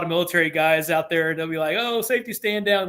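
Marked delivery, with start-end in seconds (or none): 1.8-2.9 higher, mock-bored sailor groan; lightly mock the tedious briefing. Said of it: "We make fun of it".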